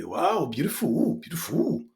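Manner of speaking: mock learner admiring, BEAUTIFUL with a swooping wrong ending; learner's mispronunciation. Learner abroad admires something, mispronounced BEAUTIFUL. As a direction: gush BEAUTIFUL the mistaken way. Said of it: "and you say".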